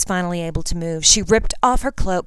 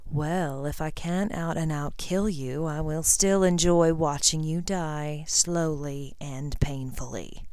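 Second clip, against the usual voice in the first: sneering; 5 dB quieter, slower than usual. Acted. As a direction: drawl it with contempt. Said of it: "Lucius sneered".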